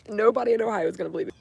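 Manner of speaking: fast and loud, excited; rushing it out, thrilled. Real, not acted. Excited exclamation.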